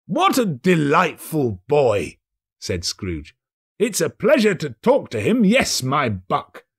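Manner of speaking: put-on asking the boy urgently; cheerful old man; eager Scrooge. Scrooge voiced.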